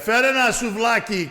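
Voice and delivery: high, loud mock cheer; hammed-up crowd shout; crowd reaction. Audience cheering the comic, high and loud. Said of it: "everybody's like".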